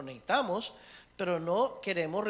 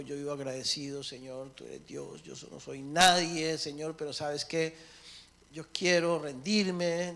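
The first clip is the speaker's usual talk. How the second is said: humble prayer. Pretend. Preacher models a humble prayer for his listeners. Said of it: "te has humillado y te has postrado y dicho".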